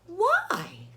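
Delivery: breathy whispered why; whispered Piggy. Acted. Piggy whispers her question to Gerald. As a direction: ask it in a secret whisper. Piggy asks, quietly voiced.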